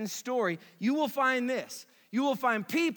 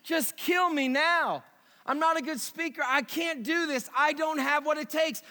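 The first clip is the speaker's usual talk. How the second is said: mock whining complaint; 4 semitones higher than usual. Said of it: "to say".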